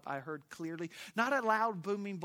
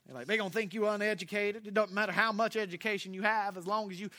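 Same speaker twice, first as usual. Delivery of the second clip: lightly voiced worried relatives, raised and loud at first; relatives warning; 4 semitones higher, 5 dB louder than usual. Pastor voicing family warning him not to go north. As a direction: warn him off going north, a touch of the folks back home. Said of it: "They were telling me".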